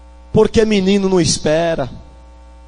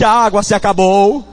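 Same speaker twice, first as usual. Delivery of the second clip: louder repeat; 3 dB louder than usual. Shown as a demonstration. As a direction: say it louder back. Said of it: "Diga mais forte". (diga mais forte, com mais força)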